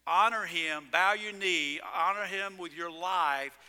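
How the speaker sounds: emphatic call, leaning on "Honor"; preaching. Real, not acted. Firm preaching exhortation. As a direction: pastor urging the congregation to honor Him.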